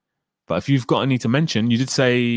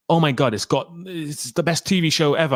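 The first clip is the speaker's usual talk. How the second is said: mock hype; 5 semitones higher than usual. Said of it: "she's just over the top".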